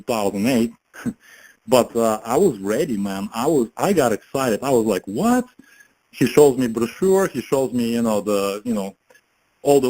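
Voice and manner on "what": surprised what. Retold or imitated. Excited reaction to friend's offer.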